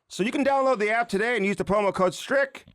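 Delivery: upbeat, punchy ad read; energetic sponsor plug; promo read. Real, not acted. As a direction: sell the app and spell out the code.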